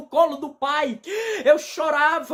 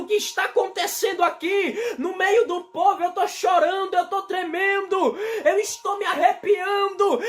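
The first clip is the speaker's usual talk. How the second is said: panicked thoughts; 4 semitones higher than usual. Retold or imitated. Panicked inner voice in church.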